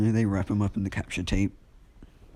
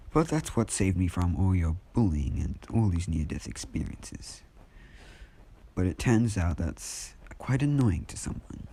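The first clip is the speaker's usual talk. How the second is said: measured speech with dramatic pauses; a hint of a calm, ominous monologue; lightly acted monologuing. Izuku explains Devil's Luck to Bakugo, monologuing. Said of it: "monologuing, I guess".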